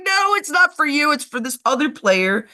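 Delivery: flustered explaining; laughing apology. Retold or imitated. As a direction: blurt it out, giggling. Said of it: "I'm like".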